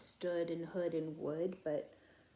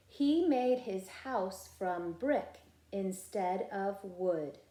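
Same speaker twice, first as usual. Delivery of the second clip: slow and a touch louder: He made his house from brick instead of wood; model reading; 3 dB louder, slower than usual. Shown as a demonstration. Teacher modeling the sentence for the class to echo. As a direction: read it out for the class to copy. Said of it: "you be my echo".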